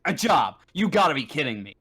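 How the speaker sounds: dismissive, punched key words; scoffing disbelief. Acted. Game master's character rejects an android having a job, scoffing. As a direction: scoff at the very idea.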